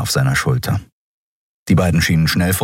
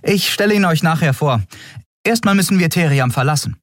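put-on higher, fast, eager young captain; 12 semitones higher than usual. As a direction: push the crew along, a bit rushed. Endriel weicht aus. (höhere, eilige Stimme der jungen Kapitänin)

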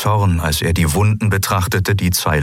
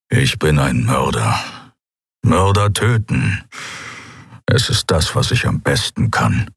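gruff killer's voice; 4 semitones lower than usual. Acted. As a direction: state it flatly, like a killer. Keru calls himself murderer.

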